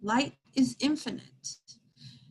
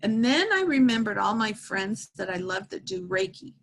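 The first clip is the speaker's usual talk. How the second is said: holding back crying as she tells it; tearful. Real, not acted. Medium telling viewers about the woodpecker, tearful. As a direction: voice welling with real tears. Retelling her son's sign, tearful.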